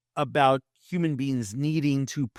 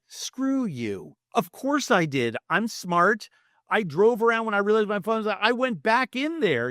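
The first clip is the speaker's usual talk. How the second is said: rising, faster indignant rant; defensive snap; 6 semitones higher than usual. Retold or imitated. Roommate snapping at the friend's advice, mock indignant. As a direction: snap back, offended at the advice.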